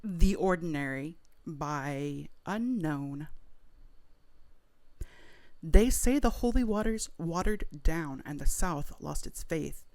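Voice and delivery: dramatic poetry reading of half-remembered lyrics; spoken word. Pretend. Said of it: "perform a spoken word poem of your version".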